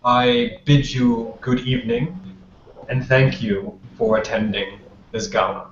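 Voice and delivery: measured formal welcome, spaced by pauses; lightly voiced ruler addressing a gathering; prince's public address. Kostas welcomes guests to the coronation gala, lightly acted formal address.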